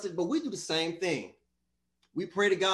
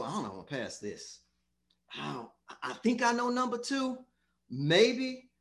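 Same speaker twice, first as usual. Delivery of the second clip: acted uncertain student; 3 semitones higher than usual. Acted student doubting during test.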